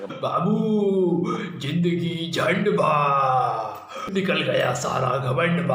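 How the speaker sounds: slow, drawn-out filmi drawl with जिंदगी झंड बा shouted; Ravi Kishan impression. Mimic doing Ravi Kishan's famous line, slow and loud. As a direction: stretch every word and bark झंड. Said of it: "Ravi Kishan".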